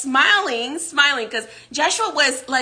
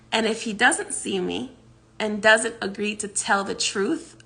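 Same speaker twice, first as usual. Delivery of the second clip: calm warning; 2 semitones lower than usual. Retold or imitated. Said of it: "Joshua very calmly smiles at him".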